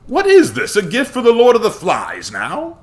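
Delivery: very high, loud disbelief; incredulous questioning. A narrator's reading. Samuel questions the pig's head offering, incredulous. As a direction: pitch it way up, scoffing in disbelief.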